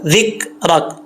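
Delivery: जिक्रक with a full, heavy r. Shown as a demonstration. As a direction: thicken the "रक" in जिक्रक. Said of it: "यानी मोटा पढ़ा जाएगा". (जिक्रक में रा मोटा)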